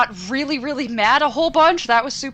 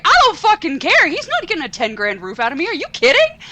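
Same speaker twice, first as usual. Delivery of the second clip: retold yell; 6 semitones higher than usual. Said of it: "And I'm like".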